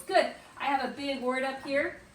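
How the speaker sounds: usual speaking voice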